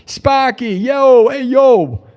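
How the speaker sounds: lightly voiced cheery announcer, stretching the name; imitating Sparky greeting. Streamer retells how they used to greet him, in a mock Sparky greeting. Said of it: "They used to say".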